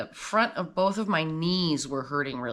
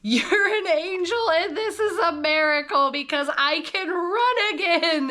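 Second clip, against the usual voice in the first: high, slow, crying thanks; tearful gratitude; 11 semitones higher, 3 dB louder than usual. Retold or imitated. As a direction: choke up with gratitude. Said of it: "I'm like".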